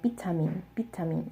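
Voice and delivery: vitamin as pitamin, short i; the Korean pitamin; Korean pronunciation. Shown as a demonstration. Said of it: "the Korean version is pronounced like".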